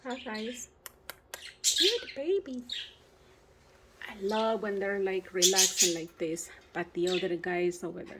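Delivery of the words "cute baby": cooing to a pet. Real, not acted. Cooing at her pet bird.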